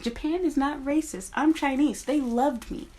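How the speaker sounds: sarcastic imitation of defensive commenters; mocking commenters. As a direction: parody a smug commenter. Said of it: "dumb bitches in my comments like".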